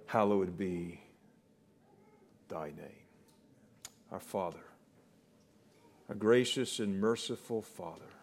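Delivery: low, soft praying voice; reverent prayer. Real, not acted. Preacher prays to our gracious Father, reverent prayer. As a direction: pray it softly, with long pauses.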